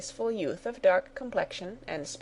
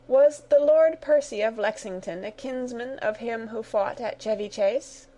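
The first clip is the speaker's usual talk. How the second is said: joyous; 4 semitones higher than usual. Acted. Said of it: "raising her joyous eyes".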